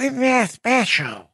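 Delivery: slow, drawn-out sarcastic sketch voice; Church Lady. Retold or imitated. Host mocking the story with a TV sketch catchphrase, Church Lady voice. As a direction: stretch it out softly with mock prim disapproval. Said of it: "This is like the Saturday Night Live, uh, church lady special".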